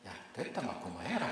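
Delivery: quick Gyeongsang dialect dismissal. Retold or imitated. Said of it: "경상도 말로".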